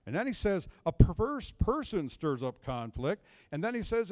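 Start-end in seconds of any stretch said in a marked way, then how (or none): 0.8-3.2 scripture reading. Acted. Reading Proverbs aloud.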